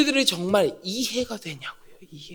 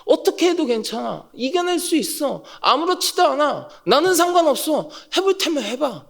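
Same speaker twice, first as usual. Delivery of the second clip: assured calm; 4 semitones higher than usual. Shown as a demonstration. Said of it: "믿음이 깔려 있는".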